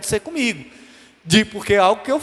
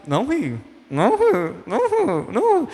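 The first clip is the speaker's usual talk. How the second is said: straining not to laugh; 2 semitones higher than usual. Acted. Preacher acting out someone ordering himself not to laugh, straining. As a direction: repeat it as if about to burst. Holding in laughter, self-command.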